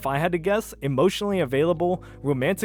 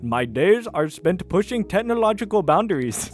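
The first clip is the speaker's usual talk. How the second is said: light mock Indian accent; a hint of an Indian accent reading the profile; attempted Indian accent, slightly higher; 3 semitones higher, 3 dB louder than usual. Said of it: "read the entire post with an Indian accent".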